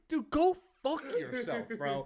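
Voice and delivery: high, loud mock outburst; pretend angry dismissal. Comic scraps apology to heckler, loud mock anger. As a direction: blurt the curse as comic indignation.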